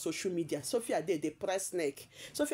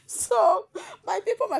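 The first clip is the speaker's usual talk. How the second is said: laughing; 6 dB louder than usual. Real, not acted. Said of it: "laughing at Sophia's words".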